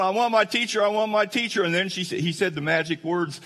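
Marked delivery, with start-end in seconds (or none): 0.0-1.6 high-pitched imitation of a wailing child; imitated bawling little boy; mock ugly cry. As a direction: keep up the hammed-up kid's crying plea. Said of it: "he keeps going".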